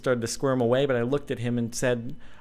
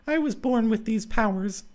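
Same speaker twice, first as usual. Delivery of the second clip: put-on a lightly higher girl's voice owning up; 10 semitones higher than usual. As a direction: lift into the heroine's voice to admit the secret. Clara's voice, high.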